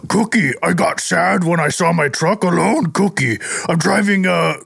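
gruff cookie-loving monster voice; a light Cookie Monster growl. Acted. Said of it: "in your best Cookie Monster voice".

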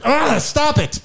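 high pained mock plea; mock complaint. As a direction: whine it like it hurts. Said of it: "It's like".

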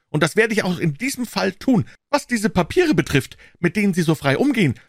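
put-on high, loud, sharp old voice; indignant old man. A narrator's reading. Old man confronting Holmes over the papers, high and indignant.

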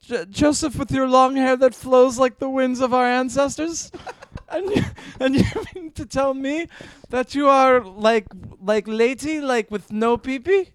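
put-on disbelieving mom, lightly accented Japanese; mock Japanese mother. Mom questions son coming out, incredulous mock Japanese accent. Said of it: "I'm the Japanese part of your family".

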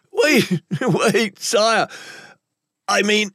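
high, frightened begging; panicked pleading. Acted. Captive begging the man with the dagger, panicked. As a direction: beg for time in a high panic. Captive begs as blade nears, in tears.

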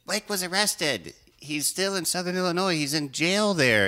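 high, drawn-out mom voice; mock-alarmed mom. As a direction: imitate mom wailing the bad news. Acting mom breaking fake news.

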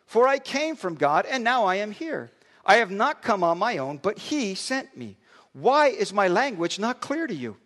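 measured, earnest Bible reading; scripture reading. Acted. Pastor reading Jesus' words to religious leaders, earnest reading. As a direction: read the Gospel aloud to the congregation.

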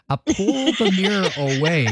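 giggling through the line; half-laughing as she tells it. Real, not acted. Laughing while telling a friend about her bird.

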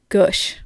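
"gush" with the vowel of "push"; goosh pronunciation. Retold or imitated. Reading a listener's birth story, "gush" said like "goosh". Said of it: "I like that she said gush".

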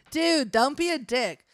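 put-on high, loud, drawn-out Valley Girl; Valley Girl accent. Roommate scolding the devil, Valley Girl accent. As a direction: complain like an annoyed Valley Girl. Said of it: "leaning into the accent now".

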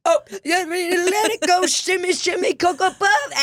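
very high mock diva sing-song; imitating her. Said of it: "She's like".

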